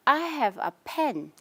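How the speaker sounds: "pen" stressed at the end. Shown as a demonstration. Teacher showing students a stressed content word, stress on PEN. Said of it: "Pen I'm stressing".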